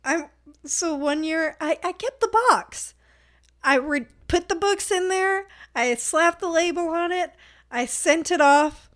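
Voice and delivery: high, strained voice near laughing tears; real suppressed laughter pushing the voice up; holding back laughter. Real, not acted. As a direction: tell it while fighting off helpless laughter. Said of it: "I'm laughing so hard".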